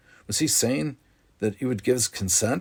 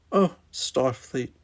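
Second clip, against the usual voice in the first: dismissive; 3 semitones higher, slower than usual. Acted. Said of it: "dismissing the idea".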